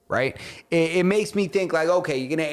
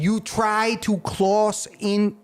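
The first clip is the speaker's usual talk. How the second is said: slipping into a mock Asian accent, higher and slow; a clumsy mock Asian accent on the Polish leader's words; put-on Asian accent; 7 semitones higher, much slower than usual. Podcaster retelling the Polish leader's threat, mock Asian accent. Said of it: "I don't know why I made him Asian".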